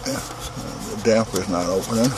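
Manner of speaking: talking around a flashlight held in teeth; flashlight in mouth. Real, not acted. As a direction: mouth propped open by a flashlight. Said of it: "talking with a flashlight in my mouth".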